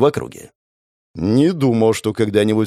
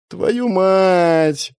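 exasperated thought; 8 semitones higher than usual. A narrator's reading. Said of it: "мысленно закатил я глаза".

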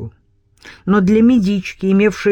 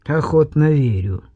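smirking. Acted. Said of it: "усмехнулся Крутицкий".

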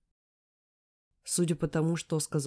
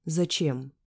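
louder. A narrator's reading. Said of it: "но повторяю громче".

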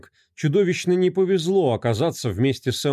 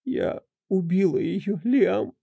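tearful half-whisper; 8 semitones higher, slower than usual. Acted. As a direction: cry it out under your breath. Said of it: "прошептала она, не переставая плакать".

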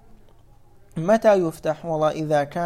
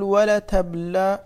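"ولتبلون" stretched slowly, a little louder; slow demonstration; 3 semitones higher, 5 dB louder, slower than usual. Shown as a demonstration. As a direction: announce "ولتبلون" slowly and firmly. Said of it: "طيب، يقول".

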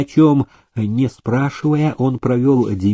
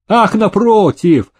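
high, slow exclamation, a bit louder; exclaiming; 9 semitones higher, 4 dB louder, slower than usual. A narrator's reading. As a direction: cry out in eager protest. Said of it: "вскричал Демидов". (воскликнуть с жаром)

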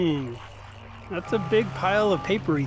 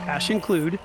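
dictating. Real, not acted. Dictating code to the computer.

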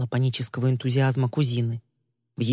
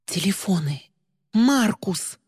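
higher, alarmed cry; gasped realization; 5 semitones higher, slower than usual. Acted. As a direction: blurt it out in sudden fright. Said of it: "Мира ахнула".

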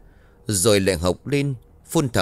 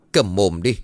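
hissed command; 3 dB louder than usual. Acted. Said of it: "Bà Ba Hương rít lên".

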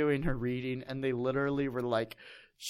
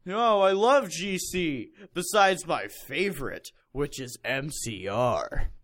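mock fangirl gush; 2 semitones higher, 5 dB louder, slower than usual. Reading fanfic heroine gushing.

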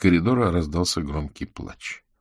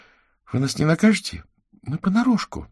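frightened; 12 semitones higher than usual. A narrator's reading. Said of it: "испуганно зажала рот ладошкой".

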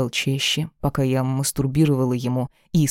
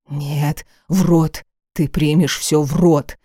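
louder angry bark; barked order; 5 dB louder, slower than usual. Acted. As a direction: snap the command out hard. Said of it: "рявкнул он".

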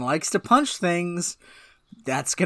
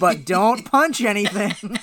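laughing through it; 2 semitones higher, 4 dB louder, slower than usual. Acted. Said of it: "if they'd done a sketch".

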